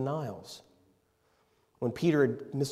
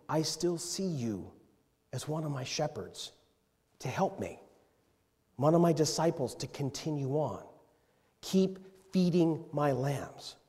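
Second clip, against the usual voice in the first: tender Jesus; 4 dB quieter than usual. Acted. Jesus voiced tenderly to Peter.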